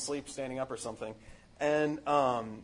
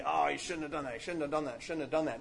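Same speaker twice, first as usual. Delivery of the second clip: self-pitying whine. Retold or imitated. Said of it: "in our despair and proud self-pity".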